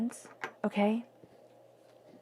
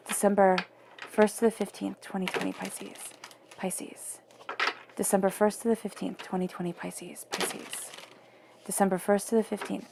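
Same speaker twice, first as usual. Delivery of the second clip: repeated incantation. Real, not acted. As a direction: intone it, dropping to a near-whisper on the sign. Repeats sign and dates before reading.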